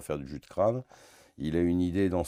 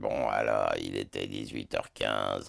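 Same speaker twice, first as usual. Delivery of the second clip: hammed-up, overplayed big deep voice; 9 semitones lower, 3 dB quieter than usual. Showing how a colleague mimics him, imitating an overdone big voice. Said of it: "je viens de pousser pour, euh, l'imiter".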